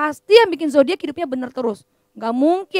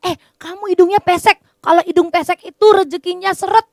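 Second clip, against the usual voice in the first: fortune-teller quote; 5 semitones higher, 6 dB louder than usual. Retold or imitated. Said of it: "Misalnya gini".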